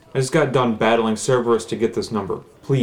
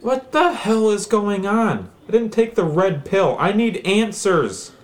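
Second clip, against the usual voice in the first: frantic; 6 semitones higher than usual. Acted. Caller frantic.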